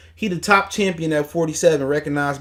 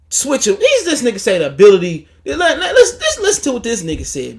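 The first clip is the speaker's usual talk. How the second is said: high, laughing and incredulous; laughing disbelief; 6 semitones higher, 5 dB louder than usual. Real, not acted. Mocking the pundit's words, high laughing disbelief. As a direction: crack up while repeating it.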